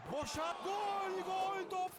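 drawn-out goal call, slow; screaming football commentator. Acted. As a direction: yell the goal out long.

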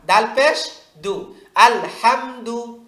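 drawn-out, very slow teacher's spelling of আল হামদু; slow spelling drill. Shown as a demonstration. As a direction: spell it out slowly for children to repeat. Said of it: "আবার". (খুব ধীরে বানান করে পড়া)

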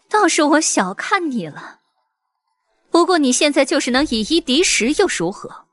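high sneering laugh into taunt. Acted. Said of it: "冷笑道".

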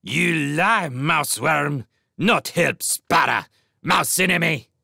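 high, loud bird-king shriek; shrieked accusation. A narrator's reading. Sparrow king accuses the mouse, shrieking. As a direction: shriek it as an enraged sparrow tyrant. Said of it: "he shrieked".

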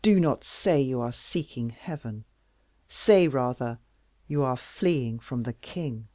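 loud, wounded royal reproach; bitter king. Acted. King accusing Louise of fleeing him, loud. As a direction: accuse her with hurt pride. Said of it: "cried Louis".

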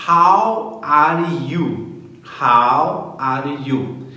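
How are you? drawn out very slowly, falling at the end; slow, deliberate classroom model; slow model phrase. Shown as a demonstration. Teacher modelling a greeting for students, very slow. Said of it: "Outra maneira que a gente fala também é assim".

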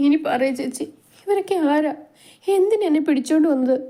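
put-on high, pleading girlish voice; anxious questioning. A narrator's reading. Captive girl questions the older woman about her captors, anxious and high. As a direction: press for answers in a high, worried voice.

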